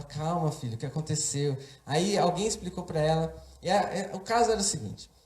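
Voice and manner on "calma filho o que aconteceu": quieter retold reassurance after the screaming; calming mother. Mother answering her screaming son, gently calming. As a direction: settle the child down gently. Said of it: "E ela".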